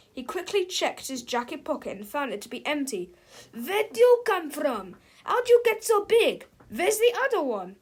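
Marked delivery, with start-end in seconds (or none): 3.5-7.8 startled. Acted. Villain startled by giant double.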